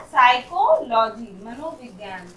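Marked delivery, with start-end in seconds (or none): 0.0-1.3 slow "साइकोलॉजी" starting on the s; silent p. Shown as a demonstration. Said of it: "पी का sound यहाँ पर नहीं हो रहा". ("साइकोलॉजी" धीरे, शुरू का प मौन)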